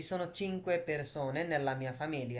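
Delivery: very slow, word by word; slow model answer. Shown as a demonstration. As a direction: say it slowly so learners can copy. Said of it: "teacher models answer slowly".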